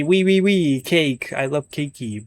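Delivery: put-on squeaky excited little kid; playful childish squeal; mock kid voice. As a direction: act out a gleeful child. Mimicking a happy five-year-old.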